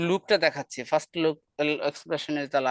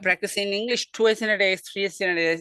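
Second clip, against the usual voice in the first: slow demo; 3 semitones higher, slower than usual. Shown as a demonstration. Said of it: "এগুলা দিয়ে বলা যায়".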